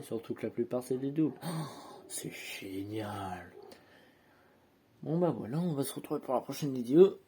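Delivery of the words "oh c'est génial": sarcastic génial. Real, not acted. Lots of stickers left to stick.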